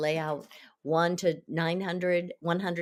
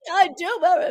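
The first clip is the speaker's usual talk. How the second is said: put-on child blah-blah; 11 semitones higher, 9 dB louder than usual. Child voiced, dismissive.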